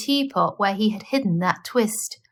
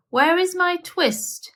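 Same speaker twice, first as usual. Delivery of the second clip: high, slow, anxious asking; pleading question; 8 semitones higher than usual. A narrator's reading. Tailor anxiously asking Simpkin where his twist is, high and slow. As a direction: ask the cat in worried disbelief.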